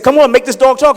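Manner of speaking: high, loud, impatient; high impatient shout. Acted. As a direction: egg him on loudly. Bar guys impatient.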